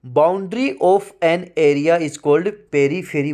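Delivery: slow, deliberate reading of a definition; slow dictation. Shown as a demonstration. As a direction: read it slowly so students can write it down. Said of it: "reads definition for students".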